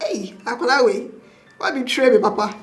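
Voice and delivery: playful, loud cry of betrayal; mock outrage. New mother greeting baby who looks like the father, mock outrage. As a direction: exclaim it in mock reproach. Retells playful outburst at newborn.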